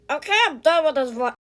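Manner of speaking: Stitch voice. Pretend. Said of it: "the Stitch voice".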